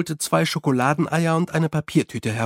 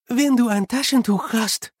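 higher, diplomatic offer; 9 semitones higher than usual. A narrator's reading. Unity offers Susan a hint about chocolate, diplomatic. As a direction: put it diplomatically. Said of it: "noch immer im diplomatischen Tonfall".

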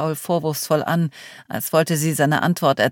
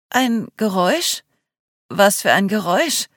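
higher, rising panicked questions; panicky; 5 semitones higher, 3 dB louder than usual. Acted. Clio hearing about a noise outside, panicky questions. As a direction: ask in rising alarm, voice climbing. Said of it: "rief Clio jetzt panisch".

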